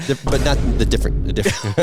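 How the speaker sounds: talking with lips pulled wide; lips stretched wide. Real, not acted. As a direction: mouth stretched open. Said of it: "That was his mouth being stretched open".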